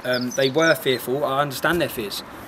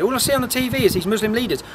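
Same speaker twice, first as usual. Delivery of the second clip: raised, heated voice pitched higher; angry; 7 semitones higher than usual. Real, not acted. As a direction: let the anger rise in your voice. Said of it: "this angers me".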